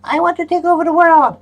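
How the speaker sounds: very high alien invader voice; cartoon alien declaring conquest. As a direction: squeak it like a tiny space invader. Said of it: "the aliens are gonna come down and be like".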